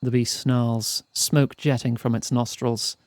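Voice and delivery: slow, measured storyteller; story narration. A narrator's reading. Narrator describing a snarling dragon to players, slow storytelling. Reads the game's narration aloud.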